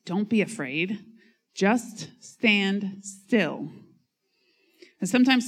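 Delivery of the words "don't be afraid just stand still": calm reassurance. Acted. Moses calming the people.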